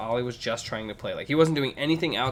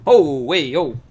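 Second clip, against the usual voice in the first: retold surprise; 5 semitones higher, 13 dB louder, much slower than usual. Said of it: "he heard it, and he goes".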